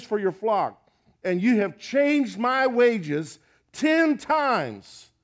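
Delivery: loud, fervent preaching of Jacob's complaint; Jacob's passionate rebuke. Acted. Preacher voicing Jacob as he rebukes Laban, loud and fervent. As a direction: let the wronged man pour out his grievance.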